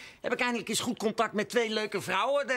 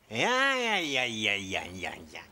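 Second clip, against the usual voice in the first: fading to a whisper; 12 semitones lower than usual. Real, not acted. Awkward repeated yes fading out.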